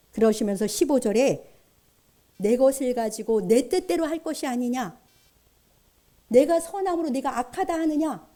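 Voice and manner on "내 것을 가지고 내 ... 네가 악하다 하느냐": mildly acted rebuke in rhetorical questions; understated scolding from a master. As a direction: challenge the listener with restrained reproach. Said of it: "이렇게 책망하십니다".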